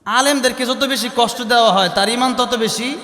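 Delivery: fervent preacher driving home his point; rising exhortation. Real, not acted. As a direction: lift the voice as the point builds.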